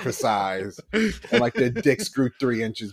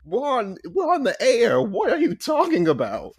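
high, panicked mock Eisner; frantic boss; 11 semitones higher, slower than usual. Frantic boss on air, high and panicked. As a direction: play the boss hissing at his employee on air. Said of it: "like how he did, was like".

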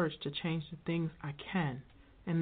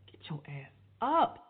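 harsh whisper; 6 dB louder than usual. Real, not acted. Scolding self to get up.

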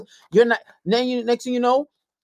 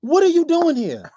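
slower, drawn-out angry disbelief; slower upset repeat; 7 semitones higher than usual. Retold or imitated. Repeating the question to the uninvited girlfriend, drawn out and upset. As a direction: stretch each word, still upset. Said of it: "I was so upset".

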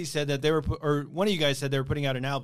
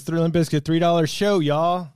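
loud announcement; 3 semitones higher, 6 dB louder than usual. Retold or imitated. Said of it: "posted a sign that says".

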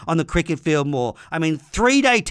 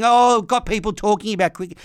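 mocking quote; 4 semitones higher, 3 dB louder than usual. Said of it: "I hear them saying".

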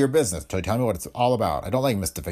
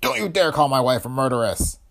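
outraged husband yelping; fly at him in fury; angry yelp; 5 semitones higher, 5 dB louder than usual. Acted. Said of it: "He yelped".

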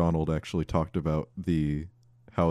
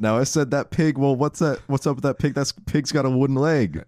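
goofy comic voice; 7 semitones higher than usual. Acted. Goofy comedic bit about a pig.

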